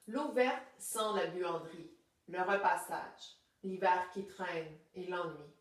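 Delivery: measured recital with pauses between verses; poem reading. Acted. Teacher reading a poem to the class, poem reading. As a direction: read each verse as its own breath.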